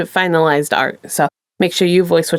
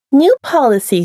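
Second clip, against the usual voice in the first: chirpy attendant; 5 semitones higher than usual. Acted. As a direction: sell the policy with a bright smile. Attendant voiced in story.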